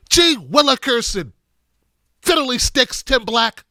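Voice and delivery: mock outrage in quaint mild oaths; folksy indignation. Host imitating an offended folksy critic, mock-indignant. Acted folksy scolding of himself.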